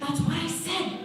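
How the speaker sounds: "That's what I said" thrown high, rising at the end; high-pitched insistence. Acted. Inmate repeating herself, "That's what I said" high and rising.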